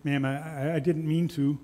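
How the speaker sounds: mild tearful stammer, a touch of holding back tears; understated child trying not to cry; fighting back tears. Acted. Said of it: "fighting back tears".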